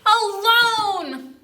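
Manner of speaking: high, loud and very slow; the old woman shouting at the bear family; drawn-out shout. Acted. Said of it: "So she says what?".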